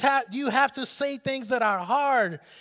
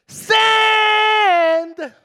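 shout; 12 semitones higher, 11 dB louder than usual. Acted. Punchline shouted at congregation.

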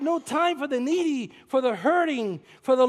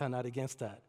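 ordinary talk

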